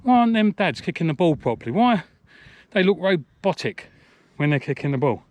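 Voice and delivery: put-on high, loud, wondering child voice; puzzled child. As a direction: voice your younger self, baffled. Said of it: "I was thinking to myself".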